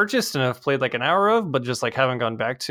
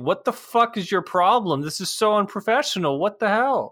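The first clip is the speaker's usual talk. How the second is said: mock scolding; 10 semitones higher than usual. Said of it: "screaming at her".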